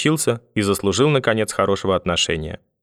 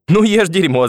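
high-pitched, louder gleeful punchline; amused grandfather; 9 semitones higher, 5 dB louder than usual. A narrator's reading. Grandfather delighted by his own joke, amused teasing. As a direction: deliver the jibe with pitch leaping up. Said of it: "засмеялся дедушка".

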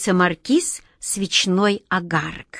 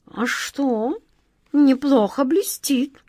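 indifferent; 5 semitones higher, slower than usual. Acted. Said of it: "равнодушно заметил кот Васька".

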